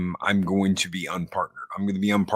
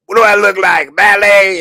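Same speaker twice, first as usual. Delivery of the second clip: much higher, loud scoffing Wolfman Jack voice; 12 semitones higher, 15 dB louder than usual. Retold or imitated. Retelling the Roadhouse scene, loud mock DJ voice. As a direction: scoff at the valet idea like the old DJ. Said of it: "he sounds just like Wolfman Jack".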